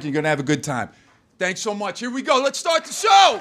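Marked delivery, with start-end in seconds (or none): 2.0-3.4 hype shout. Real, not acted. Host to audience, shouting to start the show. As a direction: launch it at the crowd.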